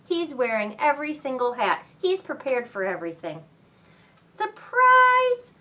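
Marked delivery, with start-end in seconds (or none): 4.2-5.5 loud, high party shout; shouted surprise. Acted. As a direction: yell it out to surprise him.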